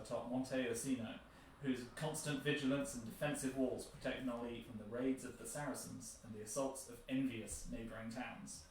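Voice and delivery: measured storybook narration; reading intro text aloud. Real, not acted. Presenter reading a board game's opening text, narrated. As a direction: read it out as a clear historical introduction.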